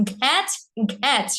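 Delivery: aspirated nasal demo; nasal aspirated ঘ্যাচ. Shown as a demonstration. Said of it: "এইভাবে".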